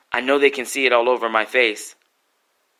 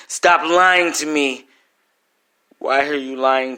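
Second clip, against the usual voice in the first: retold angry outburst; 3 semitones higher, 5 dB louder, slower than usual. Son confronting the doctor about his mother, slow angry shout. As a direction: slam each word down slowly.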